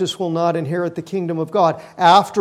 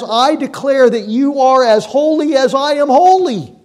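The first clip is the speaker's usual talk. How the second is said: God's declaration; 6 semitones higher, 9 dB louder than usual. Acted.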